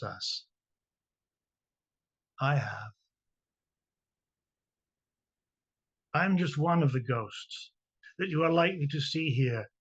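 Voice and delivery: measured poem reading with long pauses between stanzas; poetry reading. Acted. Poet reading a sun bear's words to a workshop, measured poetry reading. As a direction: read it line by line, each phrase falling to a close. Reads own poem aloud.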